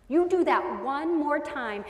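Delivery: slow, measured warning; threatening parent. Acted. Parent warning a misbehaving child, threatening. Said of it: "I wanted to threaten".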